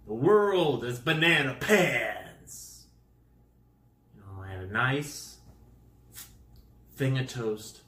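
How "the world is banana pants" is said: mild comic declaration. Real, not acted. Declaring the world absurd.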